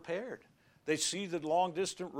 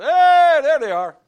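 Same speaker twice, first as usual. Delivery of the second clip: high, loud delighted call of recognition; joyful greeting; 12 semitones higher, 17 dB louder than usual. Pretend. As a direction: spot them across heaven and cry out. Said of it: "Then I'll say".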